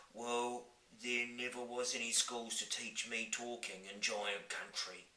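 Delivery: sad giant. Acted. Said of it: "the B F G said sadly".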